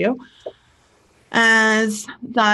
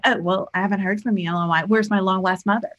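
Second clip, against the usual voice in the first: mock guilt trip; much faster than usual. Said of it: "pull it back on her".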